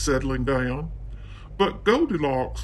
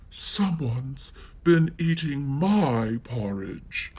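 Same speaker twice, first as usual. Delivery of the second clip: exclaimed; slower than usual. Acted. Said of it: "she exclaimed".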